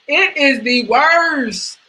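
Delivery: crying over giving up chicken; mock crying. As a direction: whine it like fake sobbing. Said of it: "mock crying".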